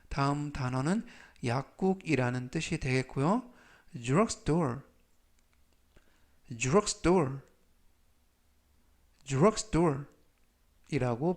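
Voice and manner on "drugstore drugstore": drugstore said slowly and clearly; slow model reading. Shown as a demonstration. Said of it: "제가 천천히 세 번씩 읽어드리고요".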